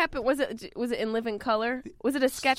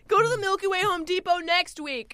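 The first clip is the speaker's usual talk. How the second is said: put-on whiny teen voice; 8 semitones higher than usual. Alien teen voice continues.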